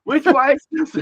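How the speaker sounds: high, loud mock holler; blunt demand. Australian asking a stranger for directions, blunt loud holler.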